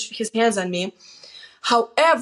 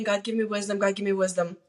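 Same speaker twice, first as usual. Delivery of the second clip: quiet prayer; 2 semitones lower, 6 dB quieter than usual. Retold or imitated.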